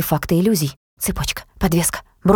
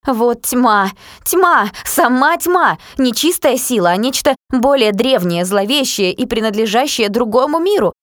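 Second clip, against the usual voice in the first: awed horror; 6 semitones higher, slower than usual. A narrator's reading. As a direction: gasp it out in dread. Awed horrified speech about darkness.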